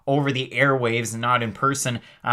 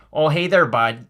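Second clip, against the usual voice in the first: Canadian accent; 3 dB louder than usual. Shown as a demonstration. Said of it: "You're doing a Canadian impression?".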